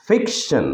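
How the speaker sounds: ফিকশন with weight on ফিক, then falling; careful model of ফিকশন, ফিক stressed. Shown as a demonstration. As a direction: press on the first syllable of ফিকশন. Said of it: "তাহলে এটার ফুল উচ্চারণ হবে".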